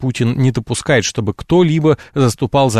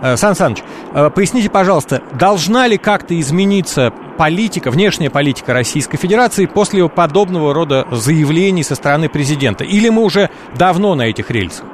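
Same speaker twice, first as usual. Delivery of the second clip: raised voice for a bad phone line; speaking louder; 4 semitones higher than usual. Real, not acted. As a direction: speak up so the listener hears. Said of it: "говорите громче".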